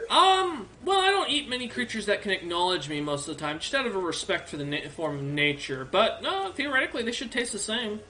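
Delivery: lightly voiced helpful orc librarian, eager; a friendly old bookkeeper orc, perking up.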